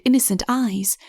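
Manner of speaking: usual speaking voice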